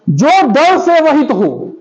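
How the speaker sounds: drawn-out teacher's dictation; slow dictation. Shown as a demonstration. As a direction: read it out very slowly for the class. Teacher dictates the phrase to define.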